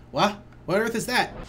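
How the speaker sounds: high alarmed cry; startled shout. Acted. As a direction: shout it out in shock. Mock alarm voicing villagers.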